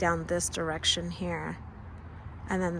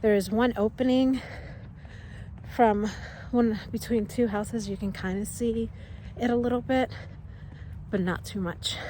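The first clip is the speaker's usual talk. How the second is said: out of breath; 2 semitones higher than usual. Real, not acted. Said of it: "Sorry, I'm a little out of breath".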